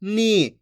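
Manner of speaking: नी with the vowel held long. Shown as a demonstration. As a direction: stretch out the ई of नी. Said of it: "खींच के पढ़ा जाता है". (नी की ई खींचकर)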